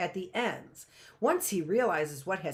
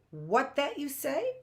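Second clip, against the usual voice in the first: distracted; 8 semitones higher than usual. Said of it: "momentarily distracted".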